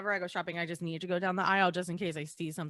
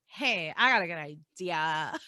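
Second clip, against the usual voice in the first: put-on Valley girl; 3 semitones lower than usual. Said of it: "sounds like a Valley girl".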